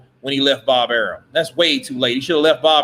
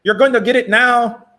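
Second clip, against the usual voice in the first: higher, louder catty taunt; bitchy Oscar voice; 7 semitones higher, 4 dB louder than usual. Retold or imitated. Mocking Oscar's taunt as more bitchy. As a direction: taunt with a little bitch behind it. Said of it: "Oscar sounds more like a kind of bitchy".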